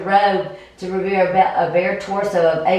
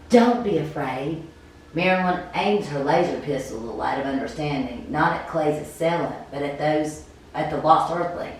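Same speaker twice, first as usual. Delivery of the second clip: game master narration; 2 semitones lower than usual. Acted. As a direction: paint the scene, unhurried.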